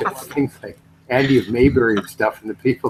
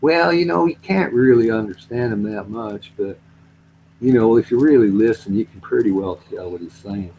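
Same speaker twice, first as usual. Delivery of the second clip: put-on local rural accent; 4 semitones lower than usual. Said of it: "They talk totally different. Like, they'll be going".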